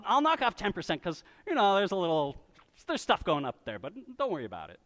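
quick, chummy salesman patter; pushy seller pitch. Retold or imitated. Preacher mimics a seller pushing a burning house. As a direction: brush off the fire like a smooth salesman. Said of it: "someone comes to you and says".

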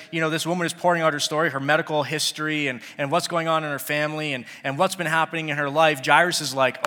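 usual speaking voice

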